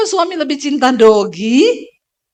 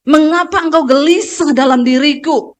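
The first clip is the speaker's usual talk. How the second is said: speaking to your soul; slower than usual. Shown as a demonstration.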